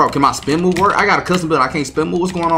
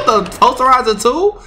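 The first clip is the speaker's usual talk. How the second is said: cackling laugh; 8 semitones higher than usual. Real, not acted. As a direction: laugh through the words in disbelief. Laughs at getting dunked on.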